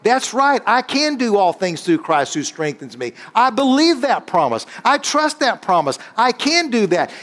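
high-pitched fervent preaching. Acted. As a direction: preach it up to the congregation. Preaching sermon.

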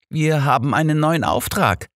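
mildly cheerful; joyful. A narrator's reading. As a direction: share the good news gladly. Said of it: "teilte ihr Holmes freudig mit".

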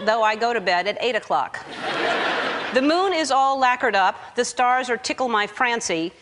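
lightly measured, sing-song verse; poem recitation. Pretend. Comedian reading her paint-color poem to the audience, mock recitation. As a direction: recite it line by line with a comic poet's cadence.

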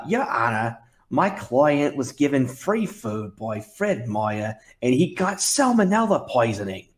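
lightly voiced Jewish Florida accent lawyer. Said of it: "my approximation of a Jewish Florida accent".

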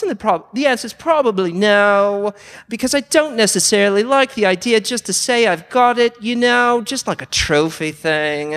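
a light attempt at an Aussie tech YouTuber, mostly his own voice; Dave Jones impression. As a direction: loosely mimic a blunt Australian electronics vlogger answering a viewer. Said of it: "approximation of Dave Jones".

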